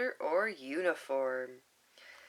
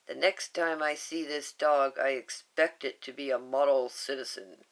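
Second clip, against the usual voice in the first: lower, louder stern man; stern social worker; 4 semitones lower, 4 dB louder than usual. Acted. Cobra warning Nani about the dog, lower and louder. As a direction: warn her in a low stern voice.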